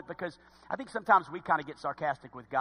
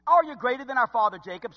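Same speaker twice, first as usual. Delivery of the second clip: raised, louder sarcastic challenge; 4 semitones higher, 5 dB louder than usual. Acted. Samaritan woman challenging Jesus about her forefather, sarcastic. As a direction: throw the question out as a mocking challenge. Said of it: "Sarcasm again".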